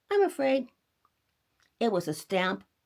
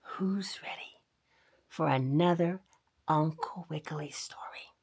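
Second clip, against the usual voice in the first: whispering; 3 semitones lower, 4 dB quieter than usual. Acted. Whispered intro to children.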